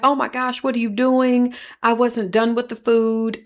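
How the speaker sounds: hint of an exasperated aunt; irritated. Aunt scolding nephew over spat-out food, mildly irritated. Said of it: "I got irritated".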